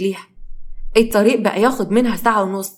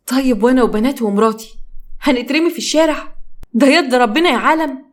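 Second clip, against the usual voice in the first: desperate pleading; 3 semitones higher than usual. Acted. أيوب يتوسل للتجار.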